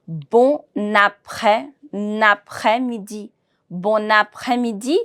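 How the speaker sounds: Bon après linked as "bo-naprè"; with liaison. Shown as a demonstration. Teacher drills the merged words for learners, with liaison. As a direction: slide the N of "Bon" into "après-midi". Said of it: "I need to merge the two words together".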